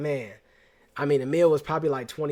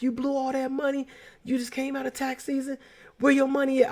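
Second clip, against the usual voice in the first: high, mock-angry uncle yelling; a pitched-up mock telling-off; hammed-up angry uncle, much higher; imagined scolding; 11 semitones higher than usual.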